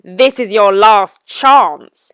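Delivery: wicked wizard laughing, then a slow threat. A narrator's reading. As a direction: gloat at the trapped princess. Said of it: "he laughed his horrible laugh".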